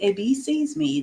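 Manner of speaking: said evenly, no excitement; just say it plainly and calmly; calm statement. Shown as a demonstration. Teacher showing a calm sentence ending with a period. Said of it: "if you wanna say it calmly".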